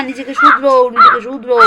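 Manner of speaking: high, loud furious command; angry shout. Acted. Mother-in-law shouting at daughter-in-law to mend her ways, furious shout. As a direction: yell the order at her.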